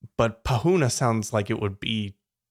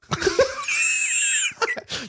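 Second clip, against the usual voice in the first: high shrieking laugh. Real, not acted. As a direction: squeal with laughter. Laughing after cow guess.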